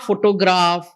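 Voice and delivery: PHOtograph with the front syllable stressed; photograph, first-syllable stress. Shown as a demonstration. Trainer contrasting word stress, PHOtograph stressed at the start. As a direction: put the weight on PHO in photograph. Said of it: "then the word stress".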